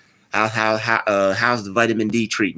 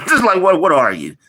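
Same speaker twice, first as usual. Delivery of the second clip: laughing disbelief; 6 semitones higher, 5 dB louder than usual. Real, not acted. Laughing at racist commenter's remark.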